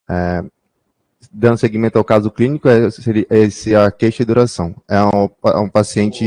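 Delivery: muffled behind a hand; hand over mouth. Real, not acted. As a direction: speak through your hand. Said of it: "fala mais alto, tira a mão da boca".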